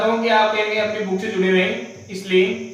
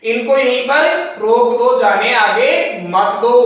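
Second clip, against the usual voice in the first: slow explaining emphasis; slower than usual. Shown as a demonstration. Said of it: "इसका मतलब".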